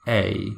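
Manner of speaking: "A" pulled back, drawn out on its own; British letter A. Shown as a demonstration. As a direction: demonstrate "A" with a falling British tone. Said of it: "they pull the back and they say".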